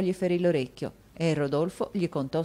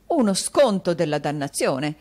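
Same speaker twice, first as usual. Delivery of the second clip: with a smile; 2 semitones higher, 5 dB louder than usual. Acted. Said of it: "con un sorriso e scotendo comicamente".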